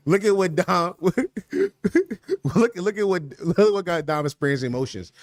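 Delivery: laughing through the words while teasing; cracking up while poking fun at Dom; laughing tease. Real, not acted. Streamer teasing Dom for tearing up, laughing as he talks.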